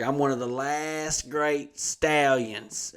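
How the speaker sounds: slow, drawn-out boast of a lightly voiced old man; old man bragging. Old hearse driver boasting to his coworker, slow and lightly voiced. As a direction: stretch it out like a proud old-timer. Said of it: "he's like".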